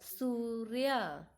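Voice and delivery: सूर्य said slowly after spelling it out; slow demo. Shown as a demonstration. Teacher sums up the spelt word for pupils, slowly. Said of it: "रेफ".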